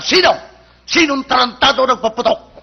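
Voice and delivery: acted tough guy demanding the culprit; bold challenge. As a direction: throw down a challenge to whoever did it. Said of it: "Tapang, ano?".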